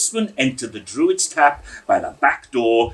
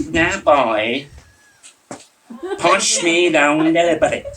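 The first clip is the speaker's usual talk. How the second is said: a lightly hissed order, a bit higher and slower; hissing old man; 6 semitones higher, 4 dB louder, slower than usual. A narrator's reading. Drunk Mister Weasley ordering the boy, lightly hissed. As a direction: hiss it out like an angry gander. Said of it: "hissing like a gander".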